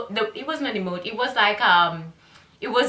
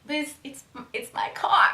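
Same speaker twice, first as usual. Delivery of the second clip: laughing protest; 5 semitones higher, 4 dB quieter than usual. Retold or imitated. Outraged laugh at his gif.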